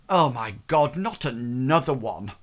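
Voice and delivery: loud exasperated outburst; brusque woman's voice calling across the room. Acted. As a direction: boom it out, fed up. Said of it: "very loud and very, um, brusque".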